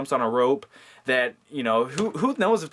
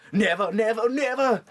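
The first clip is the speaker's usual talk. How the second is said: defiant movie shout; 7 semitones higher than usual. Acted. Shouting a Footloose movie line.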